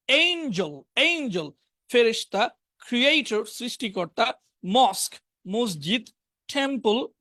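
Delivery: each word projected on its own, with pauses; vocabulary drill. Shown as a demonstration. Teacher reading sports and business words to class, deliberate drill. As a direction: read out a word list for pupils to repeat.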